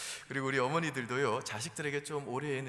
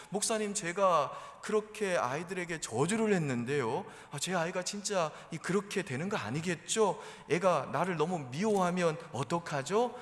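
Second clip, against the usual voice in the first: acted anxious mother, raised pitch; fretting confession to the pastor, louder and higher; regretful worry; 5 semitones higher, 5 dB louder than usual. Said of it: "그렇게 또 후회하세요".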